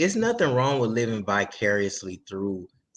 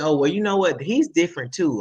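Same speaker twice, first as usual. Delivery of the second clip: higher-pitched, quick-thinking admirer; emboldened confidence; 5 semitones higher than usual. Retold or imitated. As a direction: act out an artist talking themselves into it. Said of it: "that's giving them the confidence to be like".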